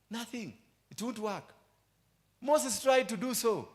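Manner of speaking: high-pitched sermon shout, slow; high preaching cry. Acted. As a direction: pitch jumps high and loud, slowing down. Preaching climax.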